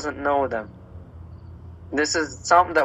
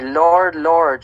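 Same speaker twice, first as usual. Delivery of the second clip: "Lord, Lord" with both words leaned on, a bit louder; emphatic repetition; 5 dB louder than usual. Acted. Preacher quoting Jesus on false professors, emphatic repetition of "Lord, Lord". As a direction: put weight on each "Lord". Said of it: "This is, like, emphasis on this passage".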